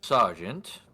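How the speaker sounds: lightly voiced measured noble; a hint of a formal lord questioning staff; lordly man in white. Lord in white questioning a guard, lightly put-on formal voice. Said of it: "do my best for his voice".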